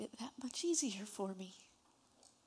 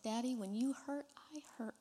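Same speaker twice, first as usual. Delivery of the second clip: tearful plea; 4 semitones higher, faster than usual. Real, not acted. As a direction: voice rising then breaking into a whisper. And I was crying.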